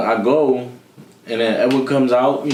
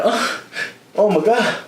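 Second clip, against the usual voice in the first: shocked; 8 semitones higher than usual. Retold or imitated. Retelling shocked reaction to punch.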